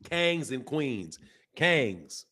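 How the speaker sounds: Southern twang on "Kangs"; slow Southern pronunciation of Kangs; white Southern accent. Shown as a demonstration. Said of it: "that's a white accent".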